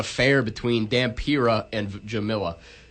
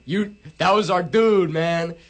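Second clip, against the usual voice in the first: mock pissed wolf; 5 semitones higher, slower than usual. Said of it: "He's like".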